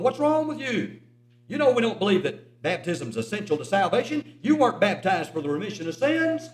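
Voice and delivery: mild mock scolding, starting high; imitating an exasperated preacher's telling-off; retold chewing-out. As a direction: chew him out, lightly acted. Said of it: "that preacher kind of chewed him out".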